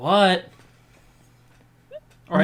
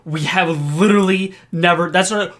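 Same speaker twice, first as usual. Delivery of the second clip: louder, pushy denial; talking over her; 2 semitones higher, 5 dB louder than usual. Acted. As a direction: talk over her loudly. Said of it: "trying to talk over her".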